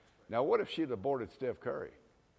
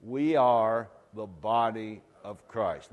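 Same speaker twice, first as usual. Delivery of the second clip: slow, louder lead for the congregation to join; congregational call; 7 dB louder, slower than usual. Acted. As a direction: lead them in saying it together. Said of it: "say it with me".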